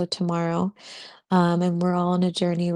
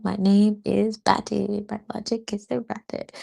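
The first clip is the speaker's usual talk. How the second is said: Batty; 4 dB quieter than usual. Retold or imitated. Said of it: "I like to joke that I am Batty".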